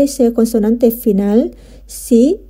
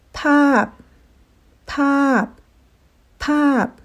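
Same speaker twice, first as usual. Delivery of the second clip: higher demo voice; 4 semitones higher, much slower than usual. Shown as a demonstration. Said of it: "teacher demonstrates Thai word".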